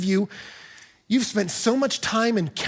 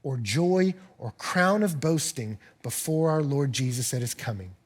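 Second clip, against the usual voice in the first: tender, slow reading; 5 semitones lower, 4 dB quieter than usual. Retold or imitated. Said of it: "He says".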